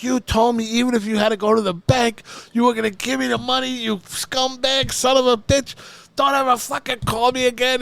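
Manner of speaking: high, loud mock tirade, slowing down; imitated furious rant. Chips tearing into the scumbag booker, loud and high. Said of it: "And he's like".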